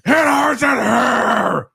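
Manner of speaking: high, slow whiny mock complaint; squeaky slowed-down mock whine; imitating her complaint. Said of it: "and she's all".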